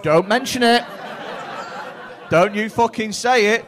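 loud, acted-out warning; mock warning. Room warning audience member off the word cladding, loud mock warning. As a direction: warn him off loudly, as if voicing the crowd.

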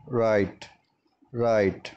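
राइट said as "rite", no w sound; राइट with the w left silent. Shown as a demonstration. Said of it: "इस word में डब्ल्यू silent है". (राइट में डब्ल्यू silent, "राइट" बोलें)

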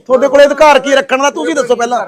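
angry confrontation. Real, not acted. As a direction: challenge them forcefully, demanding an answer. Heated confrontation over a held captive. (ਗੁੱਸੇ ਨਾਲ ਉੱਚੀ ਆਵਾਜ਼ 'ਚ ਸਵਾਲ)

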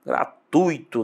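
"Gratuito" slowly as gra-TUI-to; measured "Gratuito", ui kept in one syllable; correct diphthong. Shown as a demonstration. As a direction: draw out "Gratuito" with weight on the u. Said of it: "O U ainda ganha".

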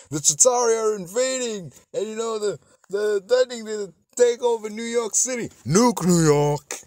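high-pitched mock panic; hammed-up official hysteria; alarmed official. Acts out panicking movie government.

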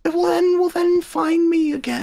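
very high, slow, strained retort; exasperated yell. Real, not acted. Lost player answers teammate, high exasperated yell. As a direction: wail back in exasperation.

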